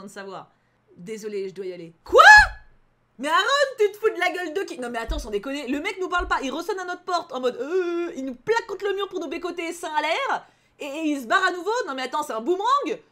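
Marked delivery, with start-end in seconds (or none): 2.0-4.8 loud, high indignant outburst; outraged yell. Real, not acted. The character leaves again, she explodes. 4.8-13.0 loud, high exasperated rant; indignant rant. Real, not acted. Ranting about Aaron's behaviour.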